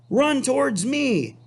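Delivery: high gander call; high mock yell of a gander. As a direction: call him over in a high voice. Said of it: "yelled the gander".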